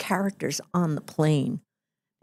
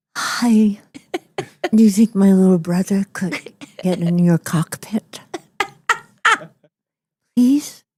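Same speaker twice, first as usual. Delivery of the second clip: breathy, put-on starlet voice impression; 2 semitones higher than usual. Asked by her child to redo her impression, breathy starlet impression. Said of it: "Do your Maryland. Do it".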